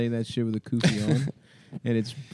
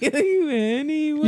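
high mock voice; slower than usual. High voice slow.

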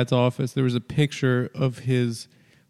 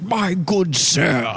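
drawn-out, higher posh British caricature; mock a fake upper-class British accent slowly; pompous posh British gent, stretched out; 5 semitones higher, much slower than usual. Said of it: "a fake posh British accent".

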